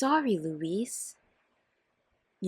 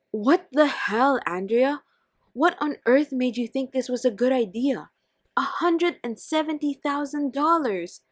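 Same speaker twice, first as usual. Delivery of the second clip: angry outburst; 4 semitones higher than usual. Acted. Louise angry at Andrea over the money. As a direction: let the anger burst.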